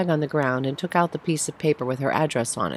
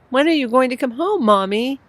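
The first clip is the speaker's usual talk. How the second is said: put-on high, louder, tearful little boy; sniffling child; 9 semitones higher, 5 dB louder than usual. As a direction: plead through sniffles. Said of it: "He started to sniffle".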